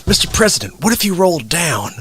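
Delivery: lightly imitated deputy giving a note; Mike Pence. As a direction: politely suggest it to the boss. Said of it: "Mike Pence giving him a vocal note".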